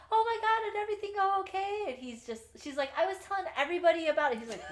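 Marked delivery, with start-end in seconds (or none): 0.1-1.8 put-on high, bubbly girly voice; mock ditzy Rue. Rue gushing to Gideon in a high, bubbly mock voice. 3.0-4.4 high, fast, bubbly chatter; mock ditzy Rue. Rue proudly telling Gideon, high and fast.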